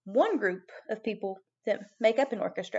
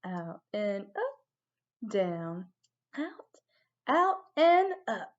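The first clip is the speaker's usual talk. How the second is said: slow guided counting; 2 semitones lower, 3 dB quieter, much slower than usual. Shown as a demonstration. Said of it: "Ready? Here we go".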